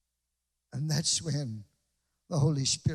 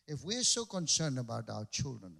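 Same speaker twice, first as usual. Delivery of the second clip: dramatic; 5 semitones lower, 4 dB quieter than usual. Shown as a demonstration. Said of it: "sorry for the drama".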